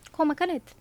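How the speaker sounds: ordinary delivery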